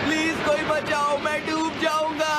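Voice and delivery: panicked cries for help; crying for help. Acted. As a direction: call for help as if drowning.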